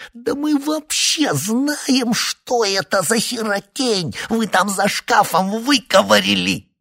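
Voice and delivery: высоко и громко, медленно; срывайся на визг; зашёлся криком. A narrator's reading. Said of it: "зашёлся Синайский". (истеричный высокий крик)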